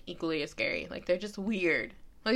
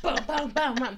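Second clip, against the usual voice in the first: higher-pitched booms mimicking a racing heart; pounding heartbeat imitation; 3 semitones higher than usual. Fan recalling a tense Game of Thrones episode, imitated heartbeat. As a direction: thump out a heartbeat in words. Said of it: "my heart rate was like".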